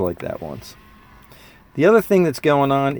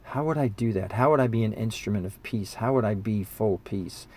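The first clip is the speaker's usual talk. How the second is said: quiet musing; 5 dB quieter than usual. Retold or imitated. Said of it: "I thought".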